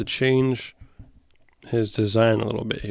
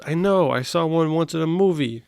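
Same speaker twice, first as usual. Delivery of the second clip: reading Garfield; 4 semitones higher than usual. Acted. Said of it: "Garfield says".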